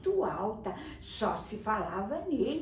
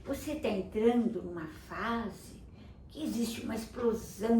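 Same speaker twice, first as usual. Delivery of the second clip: calm mother. Acted. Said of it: "A mãe falou".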